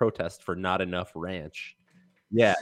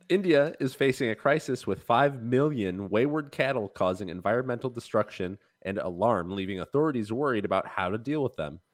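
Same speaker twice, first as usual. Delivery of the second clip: newscaster voice. Acted. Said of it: "I can't be expected to do a newscaster voice".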